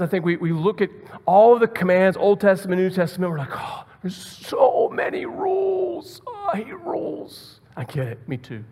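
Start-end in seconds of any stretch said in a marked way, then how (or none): 3.5-7.6 high-pitched, drawn-out mock whine; whining complaint. Us grumbling at all the commands, mock whining. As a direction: moan it slowly in a high, put-on voice.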